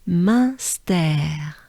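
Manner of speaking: Munster slowly, in two French syllables; nasal first vowel, French R in Munster; French pronunciation. Shown as a demonstration. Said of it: "they sound like this".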